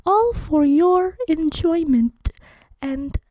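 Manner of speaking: ASMR whisper. Pretend. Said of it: "welcome to Laddie A S M R".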